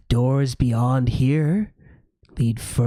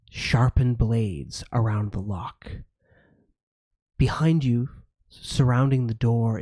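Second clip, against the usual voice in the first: game master narration. A narrator's reading. GM describes the dungeon.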